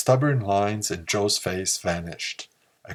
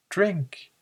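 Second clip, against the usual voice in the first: a sharp high shout of the word; 11 semitones higher than usual. A narrator's reading. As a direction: fling it out as a shout. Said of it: "he shouted it".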